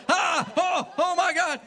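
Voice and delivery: very high, loud mock scream of fright; startled shriek. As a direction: squeal like a startled jogger. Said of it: "the woman tried to dodge it".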